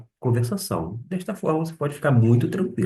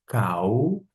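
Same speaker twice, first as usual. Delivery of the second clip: "Kaurometa" broken up by clear pauses; deliberately spaced-out "Kaurometa" for learners; paused delivery. Shown as a demonstration. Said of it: "destacar de forma pausada".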